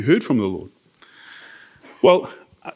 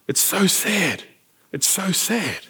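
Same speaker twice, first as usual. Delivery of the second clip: retold crying; 4 semitones higher, 5 dB quieter, slower than usual. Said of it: "she started crying".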